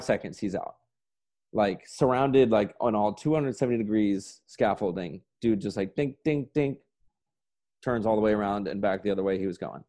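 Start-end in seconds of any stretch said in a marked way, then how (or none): 5.9-6.8 higher little dink sounds; "dink, dink, dink" as quick sound effects; imitated dinks. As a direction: sound out each turn with a dink. Imitates quick turns of blind man.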